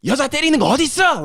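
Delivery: high, fast, furious Korean yell; angry Korean outburst. Retold or imitated. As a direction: spit it out fast and outraged. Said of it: "I was like".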